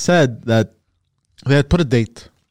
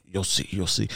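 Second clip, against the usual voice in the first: retold cryptic reply; 5 semitones lower, 10 dB quieter than usual. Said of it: "It's like".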